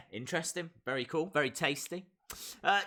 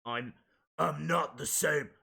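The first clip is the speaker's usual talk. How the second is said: slow reading; 4 semitones lower, slower than usual. Shown as a demonstration. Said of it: "I'll try and do it better than that".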